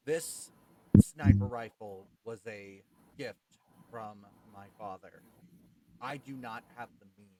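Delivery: soft, earnest plea. Acted. Shokan speaks in character.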